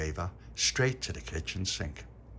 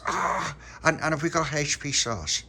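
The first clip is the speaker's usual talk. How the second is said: put-on high child voice; 7 semitones higher, 5 dB louder than usual. A narrator's reading. Child asks mum in story.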